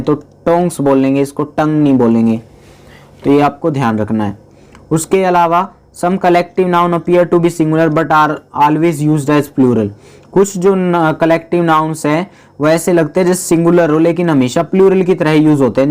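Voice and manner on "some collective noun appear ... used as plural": slow reading of the rule. Shown as a demonstration. Teacher slowly reads the collective noun rule. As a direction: slowly read out rule, word by word. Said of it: "reading rule to class".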